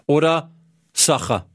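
Ciao and Sacha in a light Arabic accent; arabic accent in german. Shown as a demonstration. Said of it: "mit so einem leichten arabischen Akzent".

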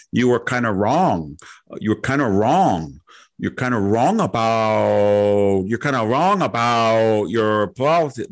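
slow, lightly imitated Chinese accent; cautious hint of a Chinese accent, drawn out. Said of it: "she had a Chinese that".

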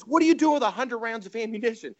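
high-pitched disbelieving question; incredulous. Retold or imitated. Toby questioning Nugent about hidden ammunition, incredulous.

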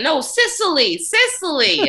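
high-pitched mock insistence; protesting grandma. Lost grandma in the wrong heaven, high mock protest. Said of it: "She's walking around saying".

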